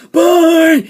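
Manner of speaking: sudden loud, high shout; overacted hollered goodbye; mock Rick farewell. Rick running off from Sophia, high mock shout.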